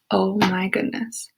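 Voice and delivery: hushed, breathy storytime whisper. Real, not acted. Teacher whispering to the class about the animals. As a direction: whisper it so the bear stays asleep.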